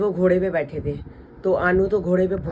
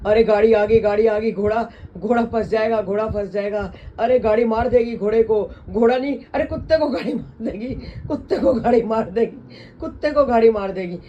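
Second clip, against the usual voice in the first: mock panic; 4 semitones higher, 4 dB louder than usual. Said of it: "घोड़े को कुत्ता बोल रही थी".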